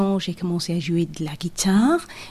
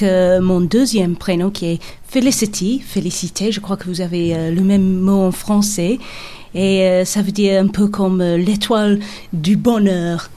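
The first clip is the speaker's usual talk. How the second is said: English accent. Real, not acted. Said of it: "vous avez un accent anglais".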